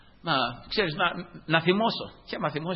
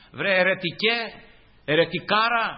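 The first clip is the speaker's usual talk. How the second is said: mocking taunt; 5 semitones higher than usual. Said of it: "έτσι με φωνάζει".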